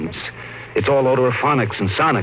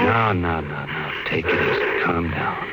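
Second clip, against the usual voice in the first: calming; 8 semitones lower, slower than usual. Acted. Husband calming his panicking wife, low and reassuring. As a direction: settle her down gently.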